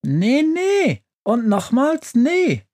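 very high, drawn-out witch voice; stubborn refusal. A narrator's reading. Witch rejecting her stove's plea, stubborn and high-pitched. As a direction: refuse stubbornly, stretching each no. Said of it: "knurrt die Hexe".

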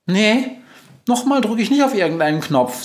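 high, squeaky refusal; affronted mouse, pitched high; indignant mouse. A narrator's reading. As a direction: refuse in an outraged little voice. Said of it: "sagt die Maus empört".

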